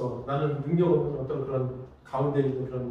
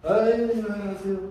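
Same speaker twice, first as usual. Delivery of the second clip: acted sleepy passenger; half-asleep; 4 semitones higher than usual. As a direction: mumble a goodbye while still dozing, stretching the first sound. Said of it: "근데 잠결에".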